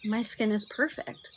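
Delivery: slow, soft and loving; slow tender self-love; loving affirmation. Shown as a demonstration. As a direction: tell your skin it's perfect, gently. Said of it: "have the love to be like".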